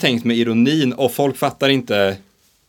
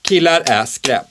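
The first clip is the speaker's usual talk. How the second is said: slow, deliberate mock slogan; slow deadpan quote; slower than usual. Shown as a demonstration. Quiz example for co-host, said slow and deadpan. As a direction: lay it out slowly like a provocation. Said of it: "om jag skulle säga så här".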